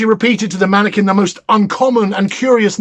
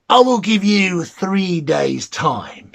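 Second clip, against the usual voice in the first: mannikin bargaining; slower than usual. Acted. The mannikin grants three days.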